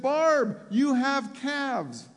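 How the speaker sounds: loud, high, drawn-out amazement; retold astonished exclamation. Preacher voicing mom seeing her daughter's legs, astonished cry. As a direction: imitate a mother crying out in astonishment.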